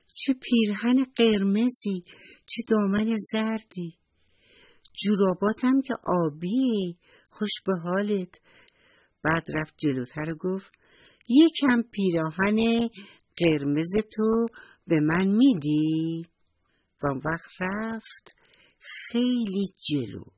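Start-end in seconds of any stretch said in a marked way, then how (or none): 0.1-8.4 admiring little mouse. Acted. 11.3-16.3 coaxing little mouse. Acted. Mouse pleading with the fire.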